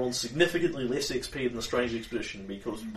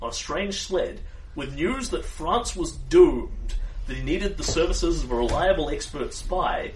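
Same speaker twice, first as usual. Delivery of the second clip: melodic scene-setting read; game master's briefing; 3 semitones higher than usual. Acted. Game master reads a mission briefing to the player, story narration. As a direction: tell the spy her mission, savouring key names.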